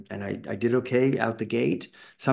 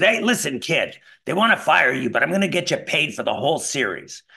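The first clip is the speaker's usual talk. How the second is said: put-on raspy old agent; 3 semitones higher than usual. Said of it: "she sounded like Bea Arthur meets Brenda Vaccaro".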